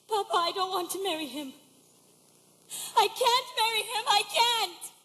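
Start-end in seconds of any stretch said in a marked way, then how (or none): 3.0-4.9 tag. Acted. Daughter begs father, refusing match.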